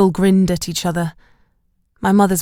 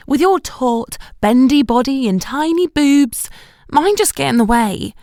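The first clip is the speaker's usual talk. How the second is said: higher, louder grumbling complaint; groaning Shelley; 7 semitones higher, 5 dB louder than usual. A narrator's reading. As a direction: moan enviously about her figure. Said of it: "she groaned".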